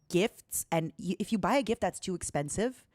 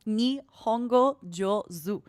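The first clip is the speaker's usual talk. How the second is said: teasing drawn out; 3 semitones higher, much slower than usual. Acted.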